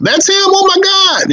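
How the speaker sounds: high, shaken cry of recognition; going to pieces. Retold or imitated. Victim seeing her attacker, voiced high and distraught. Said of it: "a woman went to pieces".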